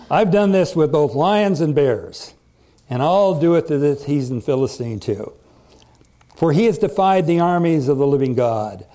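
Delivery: emphatic, declamatory quoted boast; confident story reading. A narrator's reading. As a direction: read David's assurance with conviction. Resumes reading David's boast.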